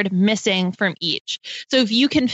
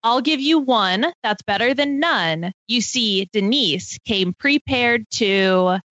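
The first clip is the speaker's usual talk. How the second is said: slow, measured poem reading; reading a limerick; slower than usual. Acted. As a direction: read it out like a rhyming riddle. Reads her limerick aloud.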